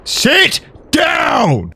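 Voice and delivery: high, loud victory yell; triumphant shout. Real, not acted. Gamer killing a mob, shouting high and loud. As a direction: roar it at the mob you dropped.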